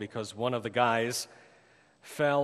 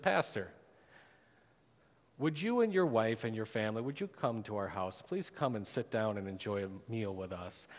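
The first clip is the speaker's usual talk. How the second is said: soft, gentle asking; polite guest asking the pastor to dinner; gracious invitation; 3 semitones lower, 5 dB quieter than usual. Retold or imitated. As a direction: invite them kindly, voice dropping softer. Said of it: "a word of gracious invitation".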